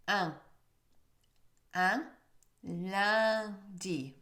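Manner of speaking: "Un" and "Lundi" with a big wide mouth; exaggerated un. Shown as a demonstration. Teacher exaggerating the sound to show how it forms. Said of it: "Obviously, I'm exaggerating".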